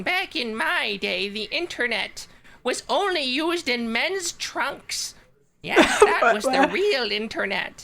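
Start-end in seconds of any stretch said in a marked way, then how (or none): 0.0-5.1 put-on old grandma voice. Joking in a group about everyone sounding like a grandma: granny voice. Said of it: "the grandma voice".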